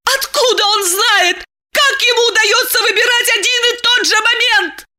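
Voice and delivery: high, shrill wailing; wailing yell. A narrator's reading. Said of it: "Диана вопила".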